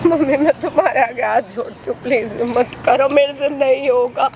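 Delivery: begging through tears, slowing down; tearful pleading. Acted. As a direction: plead with folded hands, crying.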